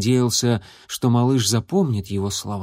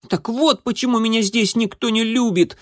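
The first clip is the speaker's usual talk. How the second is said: высокий громкий детский выкрик; котёнок кричит в обиде; обиженный крик котёнка; 11 semitones higher than usual. A narrator's reading. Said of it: "крикнул он". (крикнул, высоко и звонко)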